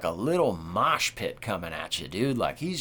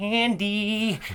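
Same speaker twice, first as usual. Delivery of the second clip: name stretched high, sliding across many pitches; 11 semitones higher than usual. Imitating how Chucky always emphasizes the name, drawn-out Chucky 'Andy'. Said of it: "like he always emphasizes it, Andy, Andy. Like there's like so many syllable levels to that and so many pitches".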